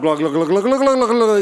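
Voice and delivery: rapid repetition building into a turkey-like gobble. Retold or imitated. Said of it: "Vai falando mais rápido".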